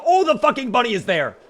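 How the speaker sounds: sudden high, loud outburst at the bunny; surprised shout. Real, not acted. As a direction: yelp it out, caught off guard.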